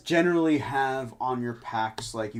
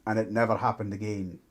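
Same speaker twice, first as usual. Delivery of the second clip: gruff dwarf. Acted. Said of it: "Why you sound so angry?".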